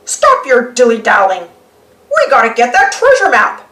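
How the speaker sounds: lightly voiced gruff pirate; a hint of a bossy pirate; Pirate Pete. Pete ordering Koodles around, lightly gruff. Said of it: "he says".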